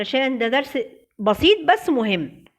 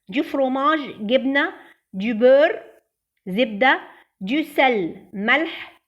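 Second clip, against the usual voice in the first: memorization drill. Shown as a demonstration. Teacher reciting food vocabulary for pupils, drill style. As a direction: lead the class through the list. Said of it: "نحفظ سوا".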